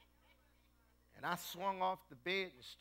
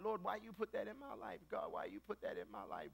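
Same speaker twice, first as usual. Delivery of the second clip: complaining to God; 4 semitones higher, 5 dB quieter than usual. Retold or imitated. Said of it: "we fight with God".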